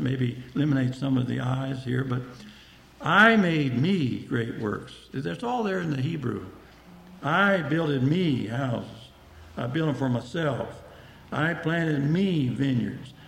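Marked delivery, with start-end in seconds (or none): 3.0-4.9 "I" and "me" leaned on, slow; stress on I. Shown as a demonstration. Preacher shows the congregation the self-centred "I", stressed and slow. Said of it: "But notice the emphasis". 7.2-13.1 slow, "I" and "me" weighted; stress on I and me. Shown as a demonstration. Preacher reads slowly, stressing "I" and "me". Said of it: "notice the emphasis".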